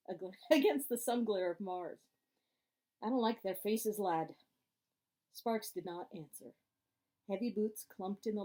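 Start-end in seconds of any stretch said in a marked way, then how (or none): 0.1-2.0 laughing correction. Real, not acted. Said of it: "pardon me if I stutter". 3.0-4.3 put-on Scottish accent. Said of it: "there's a Scottish guy in here".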